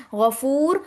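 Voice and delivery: غفور with a thick غ and heavy ر; heavy ghain. Shown as a demonstration. Teacher showing students the heavy letters in غفور. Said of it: "غین موٹا پڑھا جائے گا".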